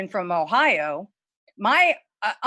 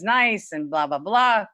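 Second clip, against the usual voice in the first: Jewish accent; slower than usual. Real, not acted. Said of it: "but I sound like I am right now".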